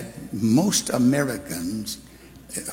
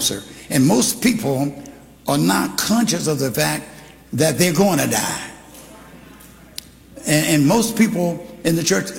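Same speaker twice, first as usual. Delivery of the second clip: higher, louder pulpit preaching; preaching hard to the congregation; full-force preaching; 5 semitones higher, 4 dB louder than usual. Acted. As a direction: bring it up and preach it to the back row.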